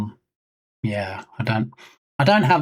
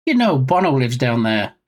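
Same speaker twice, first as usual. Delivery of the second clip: put-on terrible Irish accent; 3 semitones lower than usual. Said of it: "a terrible, almost Irish accent".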